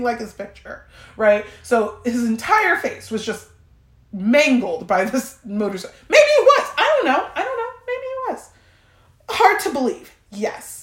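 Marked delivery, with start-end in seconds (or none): 6.1-8.5 high, giggly laughing disbelief. Real, not acted. Laughing to listeners about her date's mangled face. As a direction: laugh it out, barely holding it together.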